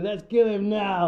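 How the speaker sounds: hammed-up Bhima bellowing for blood; loud mock battle call; eager war cry. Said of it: "like this, you know".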